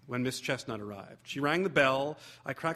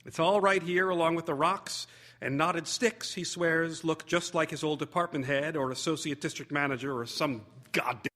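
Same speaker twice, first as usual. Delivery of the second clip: lightly voiced mother ranting about the clutter; exasperated mother; 2 semitones higher, 3 dB louder than usual. Mother voiced complaining to guest.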